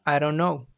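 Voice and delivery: "I don't know" run together as "I dunno"; elided form. Shown as a demonstration. Teacher giving an elision example, "I don't know" slurred into "I dunno". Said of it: "make the language easier and faster to say".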